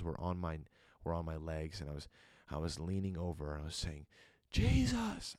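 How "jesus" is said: sudden high yell of the name. Retold or imitated. A man in a vision yelling to Jesus, loud. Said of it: "I was yelling".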